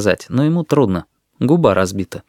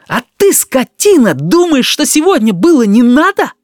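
high, loud furious outburst; 6 dB louder than usual. A narrator's reading. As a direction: let the voice fly up in rage. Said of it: "взлетел яростный голос Данилки". (яростный крик высоким голосом)

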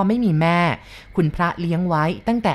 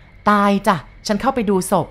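tearful; 3 semitones higher, 4 dB louder than usual. Acted. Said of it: "นางโอพูดแล้วก็ร้องไห้".

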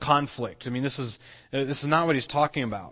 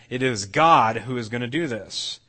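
"God" stressed above the rest of the sentence; emphatic reminder; 3 dB louder than usual. Retold or imitated. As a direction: lean firmly on "God" to remind them. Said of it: "he's emphatically saying and reminding them".

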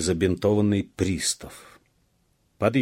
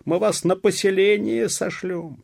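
high-pitched loud threat; angry shout; 13 semitones higher, 8 dB louder than usual. A narrator's reading. Police officer threatens peasants with exile, angry shout. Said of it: "кричал пристав".

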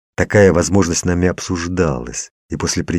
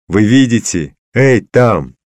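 high, loud alarmed call; yelling; 5 semitones higher, 6 dB louder, slower than usual. A narrator's reading. Man calls out to those watching, yelling. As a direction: holler it, pitched up. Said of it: "завопил я".

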